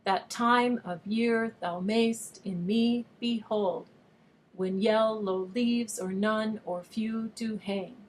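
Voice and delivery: exaggerated da-DUM beat on "That time of year", slow and loud on every second syllable; overstressed iambic rhythm. Shown as a demonstration. Teacher reads Shakespeare so students hear the meter, overstressing the rhythm. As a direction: read slowly, pounding each stressed syllable like TIME, YEAR, MAYST. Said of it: "read it and overstress the rhythm".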